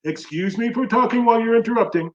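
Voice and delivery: pointed mock apology at ordinary volume; controlled sarcastic rebuke. Real, not acted. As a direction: say it evenly and a little high, making the point. Sarcastic rebuke repeated, more controlled.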